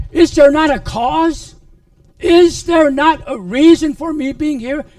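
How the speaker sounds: indignant reply. Acted. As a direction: answer the brother indignantly. David answers his brother.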